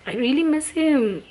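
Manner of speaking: about to cry, pitch climbing; real tearful pitch jump; starting to cry. Real, not acted. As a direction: voice rising high as tears come. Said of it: "I will start crying now".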